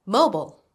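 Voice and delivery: "Mobile" finishing on a clear L; clear ending L. Shown as a demonstration. Teacher modelling a word to repeat, "Mobile" with a clear ending L. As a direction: model "Mobile" carefully, keeping the final l sound. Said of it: "Don't forget the ending sound".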